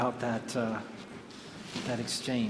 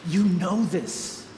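slow encouragement; 2 semitones higher, much slower than usual. Retold or imitated. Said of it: "he says these words to her".

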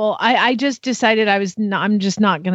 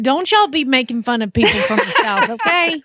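mock Southern accent; 5 semitones higher than usual. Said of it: "practice your Southern accent".

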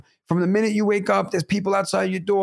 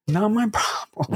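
dismissive; 3 semitones higher, slower than usual. Retold or imitated. Retells curt answer to neighbour.

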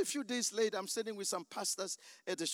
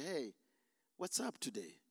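gentle Holy Spirit; 5 semitones lower, 7 dB quieter than usual. Retold or imitated. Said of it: "tapped me on the shoulder and said".

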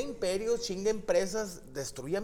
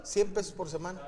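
laughing; 5 semitones higher, faster than usual. Real, not acted. Laughing while telling.

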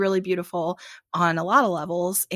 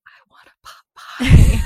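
loud, raised-pitch mock demand; hammed-up craving; 4 semitones higher, 15 dB louder than usual. Speaker acts out her daily pot pie craving, loud mock demand. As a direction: blurt it out like a comic craving.

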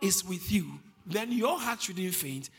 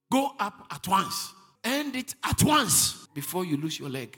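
urgent command; 5 dB louder than usual. Real, not acted. Preacher urging immediate action.

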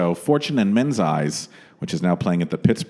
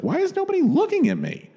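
high, plaintive diva voice; whiny starlet asking for attention; Elizabeth Taylor impression. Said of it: "she was like".

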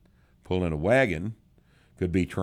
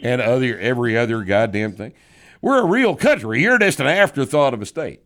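hammed-up boast, higher and louder on "We're a real country"; mock boastful voice; 5 semitones higher, 7 dB louder than usual. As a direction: brag loudly, like a proud Canadian. Reading a listener's mock letter.

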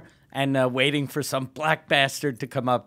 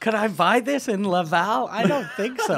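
higher mock-tourist voice; bragging tourist lady; 5 semitones higher than usual. Comic continuing the tourist bit, mock brag. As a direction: playfully show off the purchase. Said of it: "You look like a fat lady".

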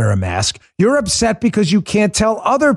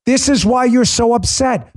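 ordinary talk, nothing marked

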